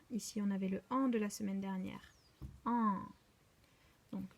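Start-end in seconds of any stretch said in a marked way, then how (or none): 2.6-3.0 "An" held as one long nasal vowel; sustained teaching "An"; isolated sound. Shown as a demonstration. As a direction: sound out "An" on its own. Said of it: "Ça fait an".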